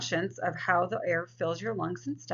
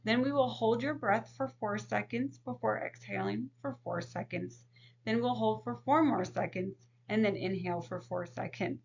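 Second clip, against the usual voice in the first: calm counselor voice. Shown as a demonstration. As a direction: guide the client gently through breathing. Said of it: "If we were working with a client".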